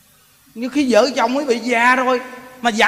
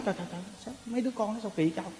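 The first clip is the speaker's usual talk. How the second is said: muttered aside; 16 dB quieter, much faster than usual. Acted. Onlooker muttering in surprise.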